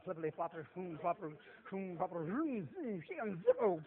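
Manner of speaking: babbled nonsense as if sounding out words; mock gibberish reading. Illiterate sailor pretending to read his Bible, mock babble. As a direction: fumble through the page like a man who can't read.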